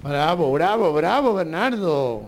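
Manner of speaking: cheering bravo. Real, not acted. Host applauding Bernardo's song, cheering bravo. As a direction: cheer the performer with delight.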